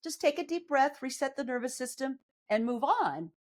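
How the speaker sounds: put-on calm the body down like a scared child; soothing own body. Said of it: "I'm just gonna tell my body".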